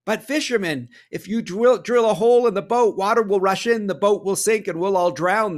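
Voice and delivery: high, loud panicked warning; panicked plea. Acted. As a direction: warn him the boat will sink. Passengers panic about sinking.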